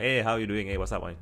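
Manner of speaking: loose, sloppy greeting among close friends; sloppy, casual. Acted. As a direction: greet a buddy in an easy, run-together way. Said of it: "the kind of very delightfully sloppy".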